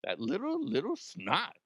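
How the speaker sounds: mock disgusted viewer. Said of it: "You're gonna go".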